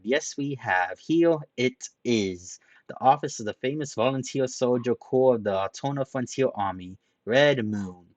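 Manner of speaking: loud, high, cheery unveiling; showy presentation. Acted. Hyomu showing off the sign, cheery and loud. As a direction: present it like a game show host.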